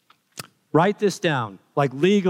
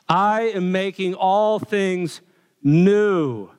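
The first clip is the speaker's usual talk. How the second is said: megaphone voice; 3 semitones higher, much slower than usual. Pretend. Preacher repeating God's words, raised booming proclamation. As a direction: call it out grandly, stretching it. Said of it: "in that megaphone voice".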